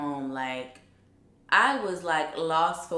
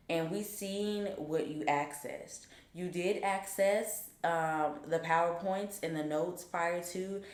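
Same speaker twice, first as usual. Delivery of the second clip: imitating a stern dean, measured and controlled; 5 dB quieter than usual. Dean telling a student she lied, stern. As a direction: lay out the charges quietly and deliberately. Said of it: "stern at this point".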